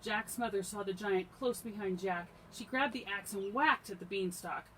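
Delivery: animated fairy-tale climax; excited storybook narration. A narrator's reading. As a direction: read the chase with projected energy. Reads a story aloud to children.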